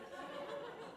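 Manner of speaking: imitated exhausted panting, quiet and voiceless; soft mock gasping for air; out-of-breath panting. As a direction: mime being too winded to speak. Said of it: "so out of breath from fighting the current".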